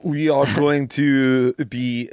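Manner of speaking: slow, hesitant mock Italian accent. Shown as a demonstration. Host fumbling an Italian accent for the break. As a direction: stretch it out in a hammy Italian accent. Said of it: "You can do Italian".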